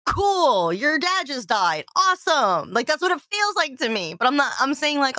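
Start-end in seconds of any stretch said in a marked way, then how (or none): 0.1-2.7 tone-deaf cheer. Retold or imitated. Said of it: "I'm always just like".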